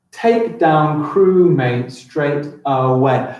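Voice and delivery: "Take down crewmate straight away" read as one slow, joined line; slow, flowing line read-through; smooth slow read. Shown as a demonstration. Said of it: "Does that fit my seven syllables?".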